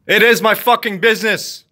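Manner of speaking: heated insistence on "is". Real, not acted. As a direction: punch "is" with anger. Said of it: "an angry rant".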